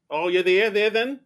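put-on licht nagedaan Australisch accent, iets hoger; mock Australian accent. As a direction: speel een slecht Australisch accent. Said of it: "our flawless Australian accents".

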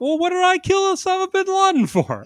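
high, exasperated disbelief; exasperated character quote. Retold or imitated. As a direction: whine it in disbelief. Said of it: "he's just like".

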